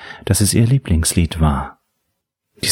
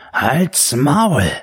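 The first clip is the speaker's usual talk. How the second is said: angry outburst; 7 semitones higher than usual. A narrator's reading. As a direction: cut her off in anger. Killer snaps at laughing captive.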